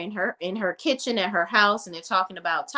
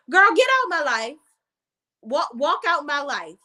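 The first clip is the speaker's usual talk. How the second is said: telling her off; 5 semitones higher than usual. Real, not acted. Scolding the mother on screen.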